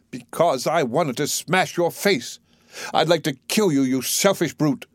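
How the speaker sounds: seething accusation; raging. Acted. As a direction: spit out resentment at him. Eliza raging at Higgins.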